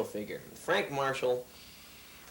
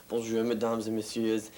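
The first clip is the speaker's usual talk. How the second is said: put-on French accent. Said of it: "a beautiful French accent Monsieur Bernard had".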